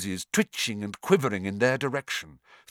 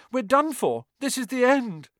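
moaning. A narrator's reading. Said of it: "Ron moaned".

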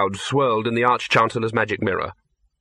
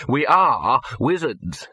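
desperate; 2 semitones higher, slower than usual. Acted. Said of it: "he said desperately".

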